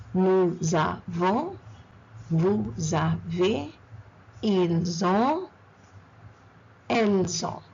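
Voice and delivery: Nous avons through elles ont drawn out, Z opening each second word; slow liaison drill. Shown as a demonstration. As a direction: stretch each syllable, "nou-za-von" style, in Nous avons to elles ont. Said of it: "the S always goes into the second word".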